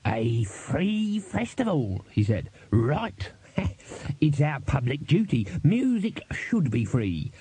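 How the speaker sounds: lightly voiced huckster warming to his pitch; wheedling street trader. Dibbler selling the free festival to himself, lightly acted huckster. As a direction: draw out the grand slogans, then tack on the prices.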